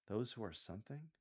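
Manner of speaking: "something" turned up in a questioning rise; amused bemusement. Shown as a demonstration. Coach models Paul's line for lectors, amused and bemused. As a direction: read it bemused, lifting "something". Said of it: "tone and facial expression of amusement and bemusement".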